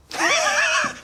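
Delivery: high burst of laughter; gleeful laugh. Acted. Doctor reveals his counter-prank.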